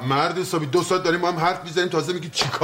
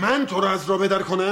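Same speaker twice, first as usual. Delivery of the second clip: a sudden offended outburst; indignant shout; 4 semitones higher than usual. Acted. Brother shouts back at being called a bad influence. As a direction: throw the accusation back at him.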